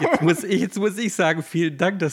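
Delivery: high, loud, laughing through words. Real, not acted. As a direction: talk while laughing. Laughs at the reading mix-up.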